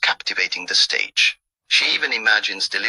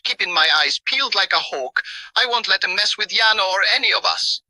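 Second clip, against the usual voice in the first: bright chuckling bravado with a raised pitch; cheerful, laughing; 6 semitones higher than usual. Acted. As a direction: laugh it off like a cocky guard bird. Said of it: "speaks with a cheerful and laughing voice".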